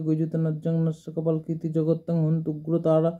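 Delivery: even, sustained Sanskrit chant; mantra recitation. Acted. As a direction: recite in one steady, near-monotone flow.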